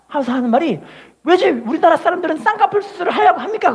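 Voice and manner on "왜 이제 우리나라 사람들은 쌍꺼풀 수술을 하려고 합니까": higher, half-laughing preacher voice; a playful take on the scolding pastor; mock sermon rebuke, pitched up; mimicking the pastor. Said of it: "그러는 거예요, 목사님이".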